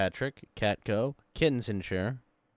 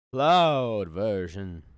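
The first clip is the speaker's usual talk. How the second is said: drawn-out, louder disbelieving repeat; incredulous echo; 8 dB louder, much slower than usual. Real, not acted. Co-host echoing the Switch cloud version, incredulous. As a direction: stretch the first word out loud and slow.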